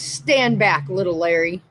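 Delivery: dad's warning. Retold or imitated. Dad to the manager yelling at him, mildly stern retold warning. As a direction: imitate a dad warning someone off, lightly.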